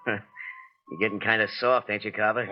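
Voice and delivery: mocking chuckle. Foreman mocking his boss.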